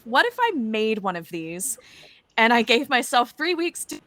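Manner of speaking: usual speaking voice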